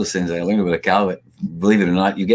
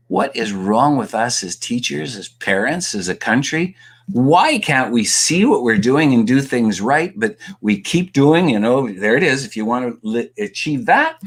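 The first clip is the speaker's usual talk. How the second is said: exasperated; 4 semitones higher, slower than usual. Retold or imitated. Retold exasperated questioning of the school system.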